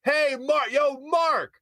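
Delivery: high, insistent mock holler; imitated yelling. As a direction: imitate someone hollering a name over and over. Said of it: "yelling at the top of his lungs".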